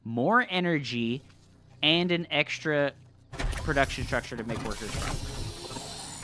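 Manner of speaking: live play-by-play game commentary; esports caster. Acted. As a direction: call the match like a caster. Casting the match.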